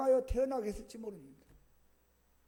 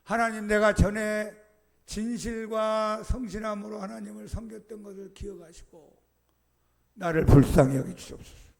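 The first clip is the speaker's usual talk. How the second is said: tearful pleading prayer; 7 dB louder than usual. Acted. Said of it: "엉엉 울면서 기도했습니다".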